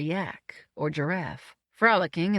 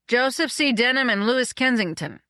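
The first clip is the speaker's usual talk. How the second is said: names called out higher; chorused announcement; 6 semitones higher, 4 dB louder than usual. A narrator's reading. Two guests answering the gatekeeper, chorused. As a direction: announce both names brightly up in pitch. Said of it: "we chorused".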